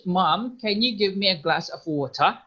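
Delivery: light British request to Mom; British water with the T sounded; British accent. Shown as a demonstration. Teacher demos a British request to students. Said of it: "Kalau British".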